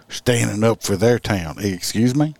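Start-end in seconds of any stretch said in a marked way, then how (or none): 1.6-2.4 high, outraged excuse me; indignant excuse me. Real, not acted. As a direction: throw it back in disbelief. Indignant reaction to Whoopi quote.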